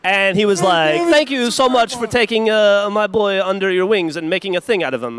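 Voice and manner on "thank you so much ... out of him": put-on grandpa in a light Italian accent; thick Italian grandfather accent. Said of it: "Is that you doing an Italian accent?".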